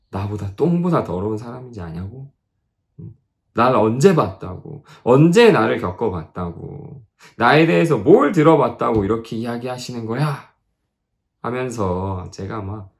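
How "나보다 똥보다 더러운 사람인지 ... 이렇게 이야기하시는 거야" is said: louder, indignant string of questions; louder, mock-indignant inner grumbling; indignant inner rant. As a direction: fume at the missionary inside. Inner angry rant retold.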